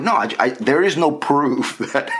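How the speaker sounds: laughing defense. Retold or imitated. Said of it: "I was like".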